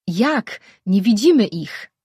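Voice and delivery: a fighter shouting back in panic; panicked shout. A narrator's reading. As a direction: yell in blind confusion. Panicked reply in blinding light.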